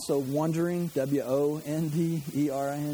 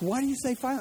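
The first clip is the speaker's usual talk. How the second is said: put-on whiny kid; 9 semitones higher than usual. Pastor imitates teenagers on a long car trip, higher whine. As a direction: mimic an impatient child in the back seat. Kids questioning the parent.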